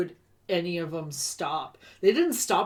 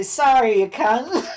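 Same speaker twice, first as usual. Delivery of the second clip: louder, matey Aussie pub banter; mock Australian accent; 3 semitones higher, 6 dB louder than usual. Talking to friends in a bar, mock Australian accent. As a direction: swear cheerfully in broad Australian. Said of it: "talking to your friends in a bar".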